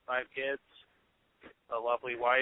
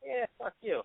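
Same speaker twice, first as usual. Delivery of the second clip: mock snide aside; 8 semitones higher, 7 dB quieter than usual. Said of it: "they might also be saying".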